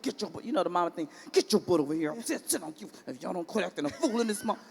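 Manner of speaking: put-on scolding kids through clenched teeth; through gritted teeth. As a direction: hiss it through your teeth like a mad mom. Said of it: "talking through your teeth".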